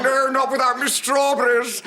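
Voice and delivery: laughing retort; loud laugh-shout. Retold or imitated. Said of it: "he said".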